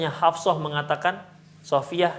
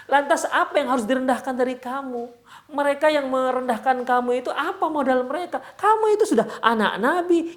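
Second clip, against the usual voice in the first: earnest reassurance, rising higher as it builds; retold cheering-up; 6 semitones higher than usual. Husband urging wife not to lose heart, encouraging. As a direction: insistently lift their spirits, pitch climbing. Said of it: "Itulah cara Rasulullah ... membesarkan hati Sofia".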